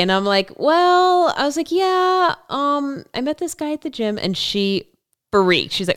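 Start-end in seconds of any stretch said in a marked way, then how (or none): 0.6-4.2 high, giddy and airy; bubbly, lovestruck and breathless. Retold or imitated. Giddy self voiced in story.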